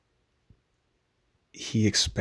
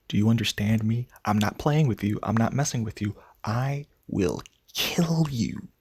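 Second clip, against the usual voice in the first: retold menacing threat, slowing on the key words; measured, emphatic mock threat. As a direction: imitate a father's deliberate threat, drawing out each word. Acts out father's death threat.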